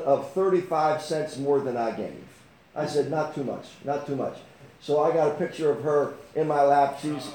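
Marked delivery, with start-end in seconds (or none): 3.1-4.4 soft, low retold reassurance; gentle reassurance. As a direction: quietly reassure a tearful child. Reassuring a crying child in retelling.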